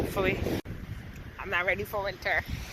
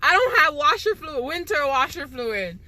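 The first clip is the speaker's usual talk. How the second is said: emphatic complaint; 4 semitones higher than usual. Real, not acted. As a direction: punch the word don't in disbelief. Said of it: "Yo, listen, okay?".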